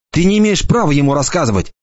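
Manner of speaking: light mocking boy's voice; lightly voiced cocky boy. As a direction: toss it off like a smug teenager. Enoch's voice.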